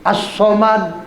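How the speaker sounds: As-Somad with a long held s, no l; doubled s. Shown as a demonstration. Teacher showing the tasdid, doubled s in As-Somad. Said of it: "so-nya ada tasdidnya".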